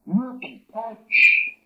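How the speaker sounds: No te coche very slow, high and loud; slow demo. Shown as a demonstration. Teacher sounds out a phrase for the class, slow and high. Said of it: "aquí nuevamente voy a decir".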